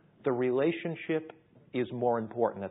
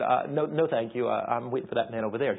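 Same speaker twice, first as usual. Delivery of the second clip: hesitant polite refusal; 3 dB louder than usual. Retold or imitated. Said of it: "I said".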